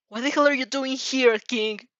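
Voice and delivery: scolding. Acted. Teacher scolds student.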